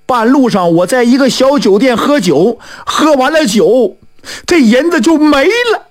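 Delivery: high, worried account rising at the end; mildly panicked telling; flustered. Acted. Newcomer tells fortune-teller the silver vanished, flustered. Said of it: "这个人是惊慌万分".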